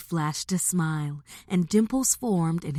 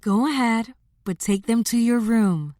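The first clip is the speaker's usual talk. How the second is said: higher, indulgent mother's voice; said with a smile; 5 semitones higher, 4 dB louder than usual. A narrator's reading. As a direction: give permission with a smile. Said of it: "said with a smile".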